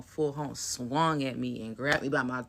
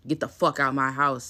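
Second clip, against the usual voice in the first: louder, aggressive mock bark; aggressive mom; 7 dB louder than usual. Imitating mom kicking her out, loud and aggressive. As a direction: snap it out like a furious mom. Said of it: "in, like, an aggressive ass way".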